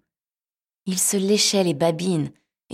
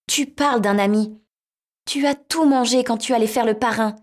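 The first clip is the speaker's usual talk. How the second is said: shocked squeaky mouse; 7 semitones higher, 6 dB louder than usual. Acted. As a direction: gasp it out high, outraged. Mouse realizes, indignant.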